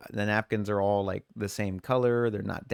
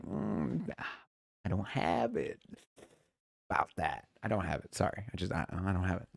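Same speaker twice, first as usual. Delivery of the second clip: much softer, fake-sorry reply; mock regret; 2 semitones lower, 7 dB quieter than usual. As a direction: pretend to be sorry while enjoying it. Feigning regret to coworker.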